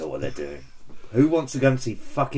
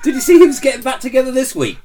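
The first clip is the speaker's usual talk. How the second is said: laughing; 14 semitones higher, 10 dB louder than usual. Real, not acted. Bursts out laughing mid-question.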